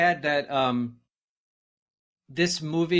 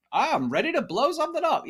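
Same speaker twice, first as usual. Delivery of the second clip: 1 eager talking bomb; 13 semitones higher than usual. Retold or imitated. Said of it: "these, like".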